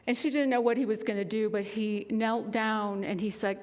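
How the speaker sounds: ordinary talk, nothing marked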